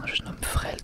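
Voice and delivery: usual speaking voice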